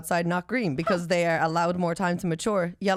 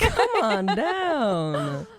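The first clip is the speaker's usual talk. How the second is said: game show host; 3 semitones higher, much slower than usual. Retold or imitated. Echoing game show catchphrase.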